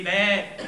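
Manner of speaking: short loud goat bleat; loud imitated "bêê"; demonstrated bleat. Shown as a demonstration. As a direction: bleat to show it is easy. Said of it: "c'est facile de bêler".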